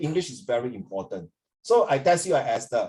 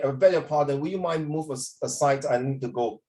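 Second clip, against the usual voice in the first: posh British politeness. Shown as a demonstration. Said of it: "Very long-winded, huh?".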